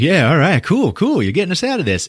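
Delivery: high, eager cheering along; acted excited relief. Rusty thrilled Cindy is saving them, acted excited relief. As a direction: gush it with rising hope.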